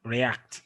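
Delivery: light RE, stressed ACT in react; prefix left unstressed. Shown as a demonstration. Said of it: "stress a prefix".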